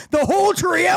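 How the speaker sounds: high incredulous question; surprised. Real, not acted. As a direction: ask it in disbelief.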